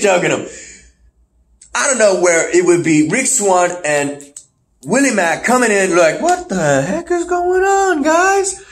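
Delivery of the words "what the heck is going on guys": very high, startled squawk; hammed-up shock; mock alarm. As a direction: burst in with a high-pitched demand. Acts out Willie Mack walking in.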